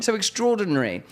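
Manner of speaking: high, breathless mock panic at the crowd; overwhelmed frantic voice. To Shauna, acting out his overstimulated self, high frantic bewilderment. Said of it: "I talked about I'm overstimulated".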